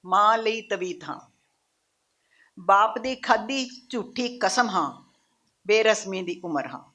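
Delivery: solemn, spaced-out declamation; poem recitation. Acted. Poet declaring who she is to her audience, measured solemn recitation. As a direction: set each image apart with a long pause.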